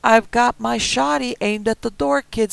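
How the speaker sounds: high, loud, rough threat; old man with shotgun warning the kid, loud; armed old man threatening. Acted. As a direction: bark it through the door. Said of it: "said Marty".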